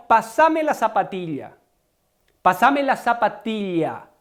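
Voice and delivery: Paraguayan "zapatilla" with a clear palatal ll; Paraguayan Spanish. Shown as a demonstration. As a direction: Paraguayan demo, "zapatilla" with a distinct ll, not y. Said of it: "me refiero a la paraguaya". (castellano paraguayo, "zapatilla" con ll lateral)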